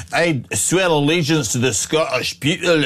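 a light, mocking hint of a Scottish Braveheart accent. Host mocking the MP's oath in a light Scottish Braveheart accent. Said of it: "sound like Braveheart".

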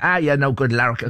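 put-on a half-hearted West Country accent that slips into Irish; failed West Country accent. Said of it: "I've gone Irish now".

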